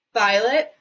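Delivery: loud rising call; screaming. A narrator's reading. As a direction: scream her name. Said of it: "screamed Missus Beauregard".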